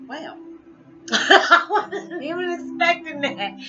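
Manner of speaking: high, loud, slow stunned gasp; mock surprise. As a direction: play caught off guard, laughing. Shocked by a cliffhanger.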